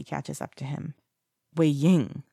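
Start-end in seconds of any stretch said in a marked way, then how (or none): 1.5-2.2 urgent call. A narrator's reading. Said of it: "Wang Ji calls urgently".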